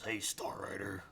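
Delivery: slow, whispered Al Snow impression; a light, whispery try at Al Snow. Retelling Al Snow's call, in a half-hearted Al Snow voice. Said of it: "I can't do a good Al Snow impression".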